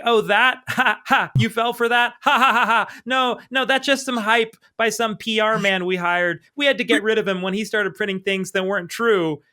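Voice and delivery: high, loud, nervous laughing cover-up. Retold or imitated. Hero caught lying to Jenny, nervous laughing high voice. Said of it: "he's sorta laughing nervously".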